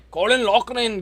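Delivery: amateur put-on Irish accent; attempted Irish accent. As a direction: have a rough go at an Irish accent. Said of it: "I can't do an accent, but, like, I'll try my best".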